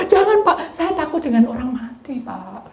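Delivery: frightened plea fading to whisper; high then whispered fear. Retold or imitated. Youth telling the man he fears the dead, whispered. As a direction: plead in fright.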